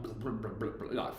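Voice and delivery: imitating a trumpet full of water, blub blub; bubbly mock blubs of a waterlogged trumpet note; gurgling blub. Trumpet full of water, blubbing imitation. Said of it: "full of water".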